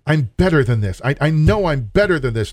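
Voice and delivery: proud voice. Retold or imitated. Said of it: "the sin of pride that says".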